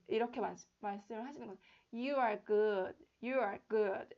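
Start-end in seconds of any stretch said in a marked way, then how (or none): 1.9-4.1 lax good with a slack vowel; relaxed good. Shown as a demonstration. Teacher modelling a relaxed good. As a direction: keep good loose. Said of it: "이렇게 하시면 되죠".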